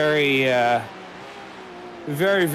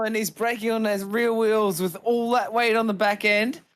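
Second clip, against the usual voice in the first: excited; 6 semitones higher than usual. Real, not acted. Live play-by-play of off.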